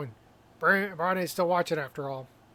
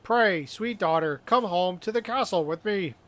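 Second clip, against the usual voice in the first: hammy stage actor. Acted. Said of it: "I have studied drama".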